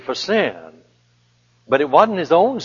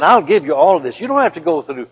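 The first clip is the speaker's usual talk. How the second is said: lightly voiced tempter, higher on the offers; eager sales pitch, pitched up, dropping at the end; Satan tempting; 4 semitones higher than usual. Satan offers Jesus a way out, coaxing. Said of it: "Satan said".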